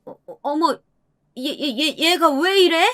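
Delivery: flustered, high-pitched stammer; 당황해서 버벅임. A narrator's reading. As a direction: stumble over each word in startled disbelief, voice high. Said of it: "당황한 듯 말을 버벅이더라고요". (당황한 시어머니가 높은 목소리로 더듬듯)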